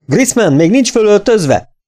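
high, slow yelled demand; bellowed question. A narrator's reading. Instructor yells at Saul from the door, bellowing. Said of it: "és elordította magát".

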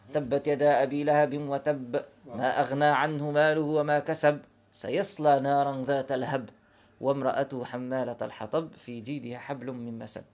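slow chanted recitation of the verses; Quran recitation. Acted. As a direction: intone each verse slowly, as in prayer. (تلاوة قرآنية بطيئة ومرتلة)

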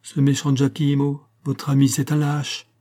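lightly declaimed stage line; declaiming. A narrator's reading. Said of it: "Elle se mit à déclamer".

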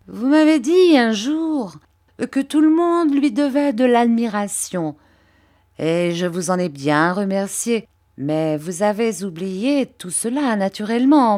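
oily, humble flattery, pitched a little up; Uriah Heep. Acted. Uriah fawning over Mr Copperfield, lightly voiced servile tone.

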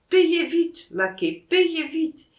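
high, insistent hurry-up; urging. A narrator's reading. Son urges Maquet to pay at once, insistent. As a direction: press him, pitched high on each command.

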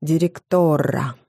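«Директора» with stress on the last syllable and a rolled, drawn-out R; растянутое «р». Shown as a demonstration. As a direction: say «Директора» slowly, end-stressed, stretching the R like four. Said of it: "произносили с ударением на последний слог и несколько растягивали". («Директора» с ударением на последний слог и раскатистым «р»)

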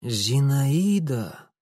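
slow, slurred and exhausted; slurred, barely speaking. Acted. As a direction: drag the word out thickly. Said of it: "еле ворочая языком".

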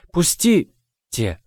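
high, slow, drawn-out squeak of protest; indignant squeak. Acted. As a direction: squeak it out, stretching each syllable. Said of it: "возмущённо пискнула Тиона". (возмущённый писк, высоко и протяжно)

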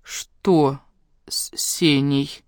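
slow, whispered fearful question; frightened whisper about her brother; breathless dread. A narrator's reading. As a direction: barely breathe the words out, heart sinking. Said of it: "С замиранием сердца произнесла я".

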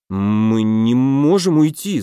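slow, faltering babble; stammering. Acted. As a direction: stumble over the words in shock. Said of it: "запинаясь, пролепетал он". (растерянно, запинаясь, медленно)

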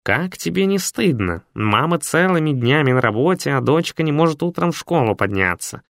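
put-on a cat program lecturing a girl who won't get up; scolding robot cat. Cat scolds lazy Masha.

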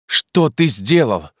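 a stricken cry of dismay; dismayed exclaim. A narrator's reading. The narrator, dismayed, cries out to his friend. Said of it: "воскликнул я".

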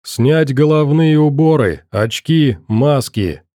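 soldier's command through a voice distorter; distorted voice. Acted. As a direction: bark orders through a distorting speaker. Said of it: "Искажённый голос шпарил". (искажённый голос по инструкции)

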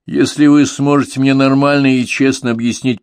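commanding. A narrator's reading. Unmasked boss demands answer.

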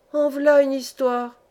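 exclamation lente, plus aiguë et plus forte; vieille logeuse. Acted. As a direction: une vieille logeuse qui s'étonne. Vieille femme s'exclame. (exclamation de vieille femme, lente et appuyée)

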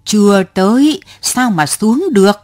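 put-on old woman raising her voice a little. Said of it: "cao giọng".

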